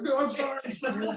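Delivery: high-pitched acted apologizing; mock-panicky sorry; flustered apology. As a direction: blurt it as if still rattled by the cop. Retold apology to the cop.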